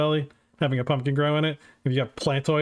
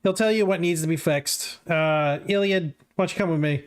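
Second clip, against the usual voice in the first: quick, lightly voiced gruff guard; Steele; 3 semitones higher than usual. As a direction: rattle it off like a guard. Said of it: "Steele says".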